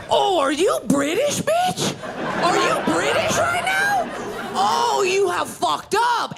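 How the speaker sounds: high-pitched yelling in a retold airport fight; mock outrage. Yelling at the father.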